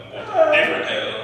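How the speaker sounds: high, fast and loud through a laugh. Real, not acted. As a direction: rattle it off laughing. Laughing punchline.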